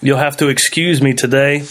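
talking with a stuffy nose from being sick; sick, blocked-up nose voice. Real, not acted. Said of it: "if I sound a little snotty".

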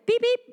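short mimicked scanner beeps; imitated machine beep. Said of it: "made a noise like that".

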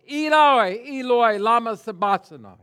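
a dying man crying loud to God; loud anguished cry. Acted. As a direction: cry it out to heaven from the cross. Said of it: "he cries out from the Christ, cross".

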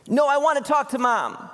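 high-pitched imitation of an upset little boy; bawling child. Son refusing his dad's pep talk on the phone, bawling. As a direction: whine it like a kid demanding a parent. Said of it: "he's bawling".

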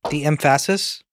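"emphasis" with the stress shoved onto the middle syllable; misplaced stress. Shown as a demonstration. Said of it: "On the wrong syllable?".

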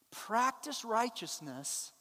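slow, with "Practice" stressed and drawn out; slow emphatic. Shown as a demonstration. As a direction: lean hard on "Practice" and let "righteousness" fall. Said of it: "look how he says to do it".

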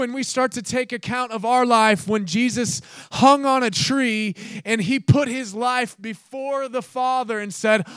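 normal talking voice

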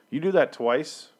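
hushed aside about the cost; whisper. Real, not acted. Vlogger to viewers on teachers smashing phones, a whisper. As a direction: whisper it like a secret warning.

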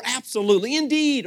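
emphatic formal agreement; indeed with a lift of polish. Shown as a demonstration. Preacher demonstrating formal yeses, emphatic. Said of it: "how about a little more formal".

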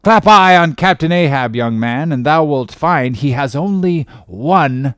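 put-on an old salt sizing up a greenhorn, loud and gruff; gruff old sea captain. Old captain interrogating a would-be sailor, loud and gruff.

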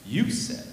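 YOU pushed up and out, "said" tossed after it; stress on YOU. Acted. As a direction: point the blame with YOU. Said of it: "Emphasis on the "you".

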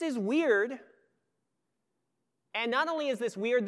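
put-on puzzled young son. Oldest son asks father why the lamb dies, lightly voiced puzzled boy.

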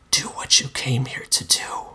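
eerie whispered monster voice. A narrator's reading. Mister Monster goads the narrator toward the kill, whispering. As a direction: whisper the command, tempting. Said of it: "Mister Monster whispered".

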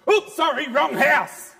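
high, loud, startled oops; sheepish devil. Acted. Devil fleeing the wrong house, loud and sheepish. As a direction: back off fast, embarrassed. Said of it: "he just hears".

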